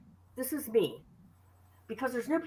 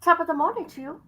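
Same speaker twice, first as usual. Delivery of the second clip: fast, higher mock Irish lilt; Irish greeting; 5 semitones higher, faster than usual. Repeating it for her friend in a mock Irish accent. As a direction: rattle it off in a jokey Irish accent. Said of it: "That's Irish".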